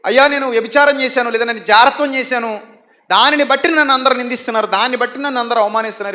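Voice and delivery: a sinner's loud, pitiful plea; loud mock lament. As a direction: cry out your shame, hammed up.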